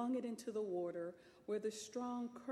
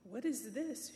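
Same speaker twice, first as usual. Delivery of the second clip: a touch of shocked outrage; mild cry of disbelief; lady sees only sacks of seeds; indignant cry; 3 semitones higher, 3 dB louder than usual. Acted. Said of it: "she cried".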